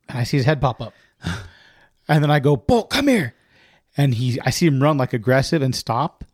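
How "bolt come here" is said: high coaxing call; calling out to a dog at the gate. Retold or imitated. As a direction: call him over, pitched up. Calling dog across acre.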